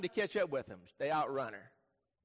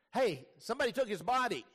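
urgent report; 4 semitones higher, faster than usual. Acted. Mary runs back with alarming news.

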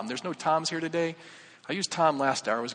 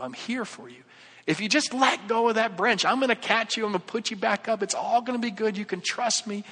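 reassuring repeat; 4 semitones higher than usual. Retold or imitated. God repeats himself for Tom, reassuring and building. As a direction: start tender, then rise into insistent reassurance. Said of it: "Can you repeat that".

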